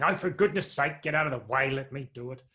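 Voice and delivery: mild exasperated huff. Pretend. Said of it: "God isn't saying".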